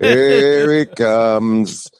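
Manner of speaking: mock group greeting, very slow and drawn out; imitating a crowd, words dragged long; drawn-out crowd call. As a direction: stretch every word right out. Mimics everyone greeting his arrival.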